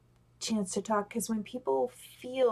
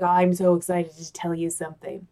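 mock excitement; 3 semitones lower, 5 dB louder than usual. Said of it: "I get excited and my shoulders go up".

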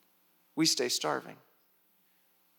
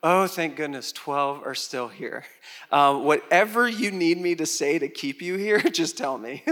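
desperate relief; 4 dB louder than usual. Retold or imitated. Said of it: "'cause I would be like".

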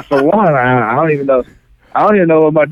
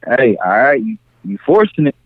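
measured mock-stern warning, with pauses between phrases; lightly stern father reining in a child; a touch of serious tone, unhurried; serious, stern dad. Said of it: "Get that serious tone on there".

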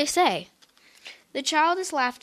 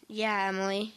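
quiet, lower, fake-hurt agreement; soft; 4 semitones lower, 7 dB quieter than usual. A narrator's reading. Sister pretending to be hurt to parents, soft voice. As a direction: say it softly, acting offended. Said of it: "she said softly".

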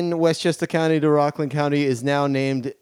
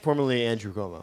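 muttered; 7 semitones lower, 9 dB quieter, faster than usual. Acted. Quick muttered correction.

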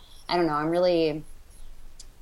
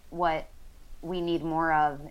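usual speaking voice

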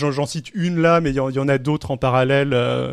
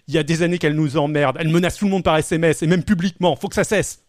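quoting an anonymous politician; 4 dB louder, faster than usual. Retold or imitated. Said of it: "aurait déclaré".

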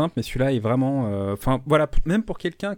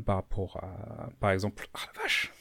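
voix coupée par l'effort; en plein effort; 3 semitones lower, 5 dB quieter than usual. Real, not acted. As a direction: parle en luttant avec un bouchon. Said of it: "J'arrive pas à l'ouvrir". (en forçant sur un bouchon coincé)

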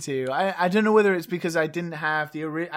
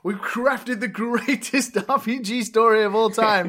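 pompous writers; 4 semitones higher, 4 dB louder, slower than usual. Retold or imitated. Story writers voiced grandly.

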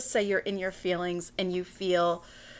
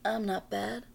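Jessica Rabbit line; 3 semitones lower, 8 dB quieter than usual. Pretend. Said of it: "my best Jessica Rabbit impression".

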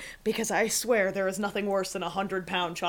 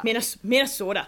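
Minnesota tried with a local long O; practising Minnesota in a local accent. Shown as a demonstration. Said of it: "get my Minnesota accent".

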